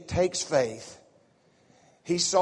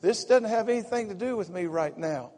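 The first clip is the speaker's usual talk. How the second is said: voicing Jesus; 5 semitones higher than usual. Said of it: "And Jesus said".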